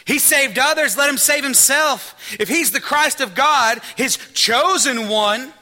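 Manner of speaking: loud jeering mockery, high and hard; mocking crowd jeering up high; scoffing rulers. A narrator's reading. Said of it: "they scoffed at Jesus".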